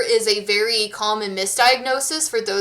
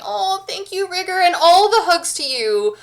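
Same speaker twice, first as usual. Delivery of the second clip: high-pitched, affectionate thank-you; real heartfelt gratitude, lifted high; gushing thanks; 8 semitones higher than usual. Real, not acted. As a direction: send hugs back to a supportive viewer, pitched up. Thanking a viewer for hugs.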